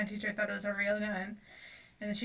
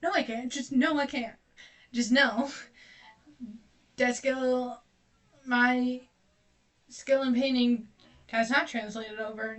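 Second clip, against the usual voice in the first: louder, frustrated denial; exasperated outburst; 2 semitones higher, 5 dB louder than usual. Real, not acted. Painter admitting defeat to viewers, frustrated and louder. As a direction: throw up your hands and refuse. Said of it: "exasperated denial".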